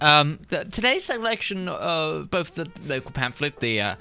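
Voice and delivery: put-on a prickly old librarian, puzzled; crotchety old librarian.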